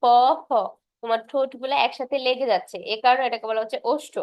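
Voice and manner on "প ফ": প and ফ said alone; teacher sounding প ফ; lip consonant demo. Shown as a demonstration. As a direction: press the lips for প then ফ. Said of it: "তুমি উচ্চারণ করলেই বুঝবা".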